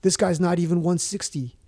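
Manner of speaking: lightly acted disbelieving official, no accent; mock weigh-in official. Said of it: "they were like".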